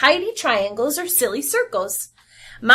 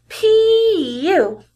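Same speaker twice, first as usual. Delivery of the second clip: mock disgust; 7 semitones higher, 4 dB louder than usual. Child smells wet dog.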